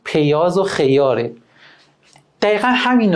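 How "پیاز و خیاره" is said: پیاز و خیاره with the ای sounded short, pejaz and xejare; short i vowel. Shown as a demonstration. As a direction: clip the i in پیاز and خیار to a short e.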